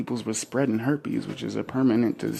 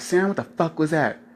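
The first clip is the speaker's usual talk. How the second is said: mock girlfriend scolding; 5 semitones higher than usual. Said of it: "She be like".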